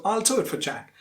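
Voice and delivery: "do" and "Jack" stressed, the rest squeezed; weak "for" between stressed "do" and "Jack"; stress-timed rhythm. Shown as a demonstration. Teacher showing the result, stress-timed "do" and "Jack". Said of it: "you get the stress timed rhythm".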